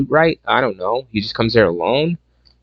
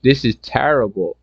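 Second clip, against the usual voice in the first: mock German protest; 2 semitones higher than usual. Reviewer replays his reaction to the movie, mock German dismay. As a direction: protest like a flustered German soldier. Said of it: "I was like".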